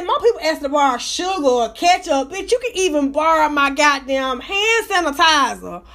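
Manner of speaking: sassy incredulous tirade at the neighbor; retold rant. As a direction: build the outrage to a shout at the end.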